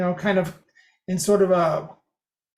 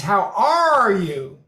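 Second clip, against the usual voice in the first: slow, pitch bending mid-phrase; pitch shift mid-sentence; much slower than usual. Shown as a demonstration. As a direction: bend the pitch in the middle. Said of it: "in the middle of a sentence".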